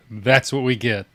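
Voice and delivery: low, quiet muttered repeat; muttered aside. Real, not acted. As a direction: drop it to a mutter.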